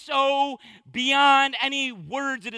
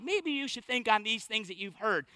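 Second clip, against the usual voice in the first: nonchalant; 6 dB quieter than usual. Shown as a demonstration. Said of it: "This is not like a nonchalant".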